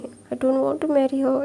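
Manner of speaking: slow pleading. Acted. Son pleads against marriage.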